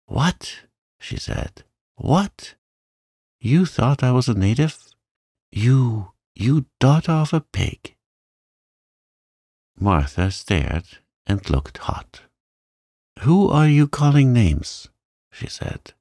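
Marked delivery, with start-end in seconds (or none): 0.1-8.0 high, furious outburst. Acted. Mary insulted by the housemaid, high furious outburst. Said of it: "Mary sat up in bed furious". 13.2-14.9 louder, higher indignant retort; offended retort. Acted. Housemaid stung by Mary's insult, indignant retort.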